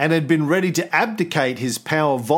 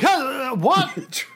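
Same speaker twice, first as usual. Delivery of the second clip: incredulous; 11 semitones higher than usual. Retold or imitated. Soldiers puzzled reply.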